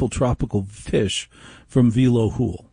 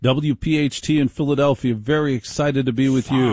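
slightly raised, punchy station-ID read; radio host show opener; 3 semitones higher than usual. Acted. Host greeting radio listeners across stations, announcer-style opener.

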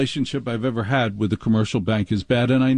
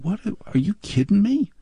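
high shocked outburst; mock shock; 8 semitones higher than usual. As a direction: voice the manager's disbelief, pitched up. Branch manager's shocked quote.

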